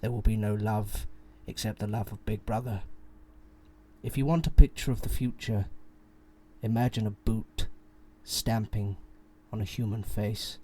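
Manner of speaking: put-on menacing RP accent reading; cold, precise RP accent; scary RP accent. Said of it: "I'll do it in a very scary R P accent".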